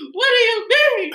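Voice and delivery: high, drawn-out exasperated retort. Retold or imitated. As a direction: retell it exasperated, loud and slow. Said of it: "that pissed me off so bad".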